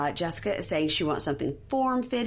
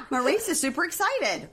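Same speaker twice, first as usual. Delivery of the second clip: high, gushing mock bride; giddy daughter; 10 semitones higher than usual. Recapper voices the bride gushing over Maurice. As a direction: gush it like an excited bride. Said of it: "she says".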